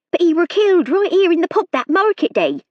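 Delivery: a frightened country maid pleading her case; nervous serving girl. A narrator's reading. Hilda voice held.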